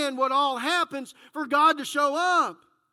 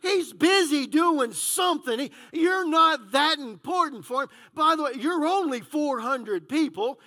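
taunting; 2 semitones higher, 3 dB louder than usual. Acted. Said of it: "he's kind of taunting them".

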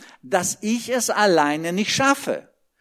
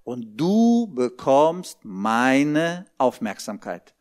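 voice of God; 5 semitones lower, slower than usual. Retold or imitated. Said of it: "Da sagt Gott".

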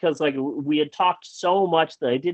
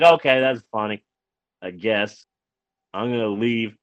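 low, muted, half-hearted admission; grudging concession; 5 semitones lower than usual. Retold or imitated. Stood-up date leaving the film, grudging. Retelling sullen grudging reaction to movie.

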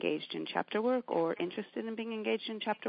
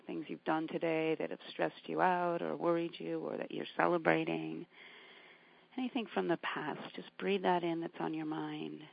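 calm grounding exercise. Acted. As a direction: gently talk them into their breath. Leads a grounding meditation.

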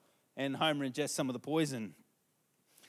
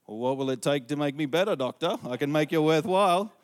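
pleading; 8 dB louder than usual. Retold or imitated. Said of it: "Homer's like".

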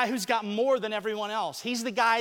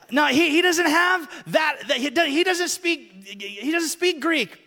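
playful loud teasing; 6 semitones higher, 5 dB louder than usual. Real, not acted. Teasing volunteer on stage.

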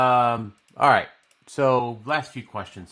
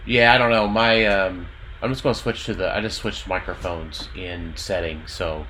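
staticky, quieter bad mic; like a crackling phone line; crackly cordless phone. Real, not acted. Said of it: "You're staticky and quieter".

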